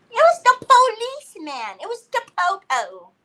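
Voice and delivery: high, sing-out announcement; mock-dramatic big reveal; hammed-up reveal. Comic reveal repeated for effect.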